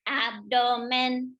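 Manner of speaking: slow robot abdomen. Shown as a demonstration. Teacher modelling a robot abdomen for students, slow. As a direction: space out abdomen mechanically, slowly. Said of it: "Say it like a robot".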